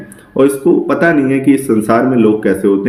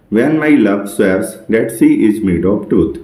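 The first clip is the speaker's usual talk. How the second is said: slow poem recital; much slower than usual. Shown as a demonstration. Teacher reading a Shakespeare sonnet line to students, very slowly. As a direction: read the verse very slowly, word by word.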